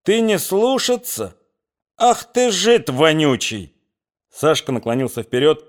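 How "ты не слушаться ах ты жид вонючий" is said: high, slow, snarling abuse; much higher, slow furious snarl; enraged thug. Acted. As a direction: spit the insult with fury. Gundosy roaring at Sashka.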